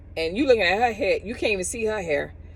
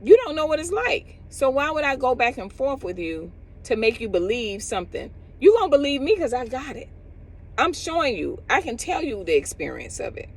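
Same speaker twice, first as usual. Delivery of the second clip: imitating the friend's reasoning; 6 semitones higher than usual. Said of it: "to know, like".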